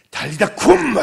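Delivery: put-on a revivalist commanding the girl to rise, full-force shout; revival preacher. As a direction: bellow it like a revival healer. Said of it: "이렇게 부흥사처럼".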